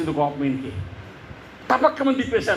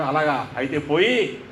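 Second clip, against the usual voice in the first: a pastor answering coolly, without budging; unmoved, offhand; 3 semitones lower than usual. Retold or imitated. Pastor coolly dismissing the army commander, unhurried and unmoved. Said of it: "అంగుళం కూడా కదలకుండా అన్నాడు".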